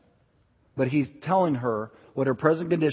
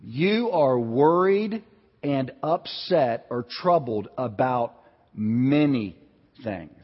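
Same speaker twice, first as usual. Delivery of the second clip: not critical; 2 semitones lower, much slower than usual. Retold or imitated. Scene: Jesus tells Martha her condition, slow and gentle. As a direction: speak it slowly and kindly, without reproach. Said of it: "not saying it with a critical voice".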